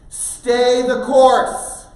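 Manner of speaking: loud, very slow, high call. Retold or imitated. Parent calling to son spinning out on trail, shouted. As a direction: holler it up the hill, each word stretched.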